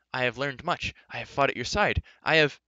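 rising, increasingly loud protest; excited interruption. A narrator's reading. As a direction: press the case eagerly, building to a cut-off. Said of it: "interrupted excitedly".

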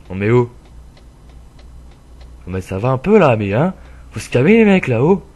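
outraged shout at traffic; loud scolding. Real, not acted. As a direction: bark at the other drivers to calm down. Scolding other drivers in game.

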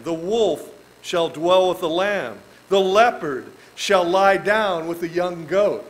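slow, solemn reading of the verse; scripture reading. Acted. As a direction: read the verse slowly and solemnly.

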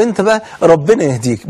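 mocking "ربنا يهديك", leaning on "بقى" with a put-down edge; a mild mock-pious jab; sarcastic prayer. Shown as a demonstration. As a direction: say "أنت بقى ربنا يهديك" as a sneering dig, not a blessing. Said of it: "لا تأتي على سبيل السخرية".

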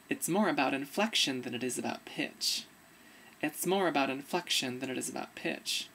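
low inflection demo. Shown as a demonstration. Repeating the line for viewers, low voice with moving inflection. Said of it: "So you can hear it".

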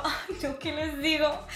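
usual speaking voice

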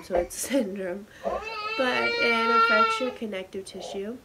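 holding back tears; crying. Real, not acted. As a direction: voice breaking while tearful. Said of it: "I knew I'd end up crying".

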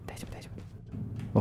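hushed unvoiced whisper. Real, not acted. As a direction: whisper so the monster won't hear. Hiding from enemy, pleading softly.

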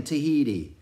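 high, loud, excited sailor calling out; frantic old sailor. A narrator's reading. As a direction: shout over the sea, searching for Pip. Narrator voices Manxman's frantic shouts.

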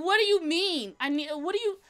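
heated sputter; flustered heated. Retold or imitated. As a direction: stammer in heated confusion. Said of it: "I was highly heated".

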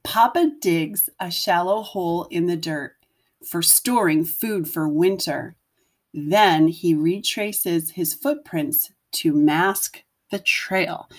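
put-on gentle read-aloud voice for young children; storybook narration. A narrator's reading. Teacher reading a picture book to her class, gentle storytelling. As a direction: tell it like a bedtime picture book.

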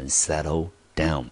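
"settle down" said as a careful model phrase; pronunciation demo. Shown as a demonstration. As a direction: model "settle down" clearly for learners. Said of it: "英文就念成". (示范念settle down)

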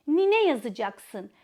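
put-on slow, clear dictation to child; dictating. Shown as a demonstration. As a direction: dictate it slowly. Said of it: "kelimeyi bir bütün halinde söylüyoruz".

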